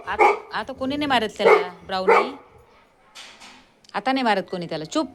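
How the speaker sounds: high sing-song pet voice, calming the dog; pet talk. Real, not acted. Soothing the barking dog.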